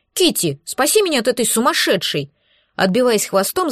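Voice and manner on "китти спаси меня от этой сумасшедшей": squeaky dragon. Acted. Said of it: "запищала Липучка".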